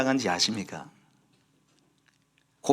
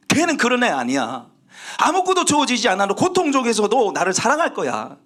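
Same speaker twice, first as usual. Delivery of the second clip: raised, punchy sermon delivery; emphatic preaching; 6 semitones higher than usual. Real, not acted. Preacher on God proving Job's love, emphatic. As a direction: drive the point home from the pulpit. Preacher drives home the main point.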